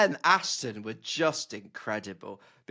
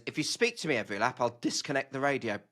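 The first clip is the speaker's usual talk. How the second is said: deadpan; 4 dB quieter than usual. Retold or imitated. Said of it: "so incredibly deadpan".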